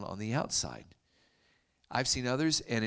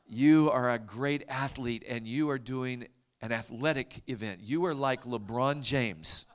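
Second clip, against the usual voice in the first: slow, deliberate quote of excited villagers; mimicked villagers; 5 dB louder than usual. Villagers telling the visitor he is an athlete, slow and emphatic. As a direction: imitate villagers pronouncing judgment word by word. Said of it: "And then they said".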